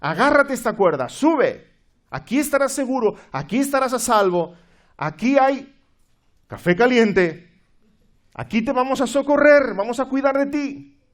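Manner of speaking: loud, high calling out, coaxing; rescuer shouting. Acted. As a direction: call him up into the boat. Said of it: "otro miembro de la tripulación que le grita". (tripulante gritando fuerte para que suba al bote)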